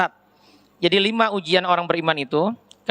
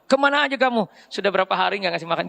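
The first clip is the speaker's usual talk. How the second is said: half-hearted grumpy telling-off; mild scolding. Retold or imitated. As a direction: beggar nags the stand-in feeder, a touch of scolding. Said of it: "Jadi diomelin".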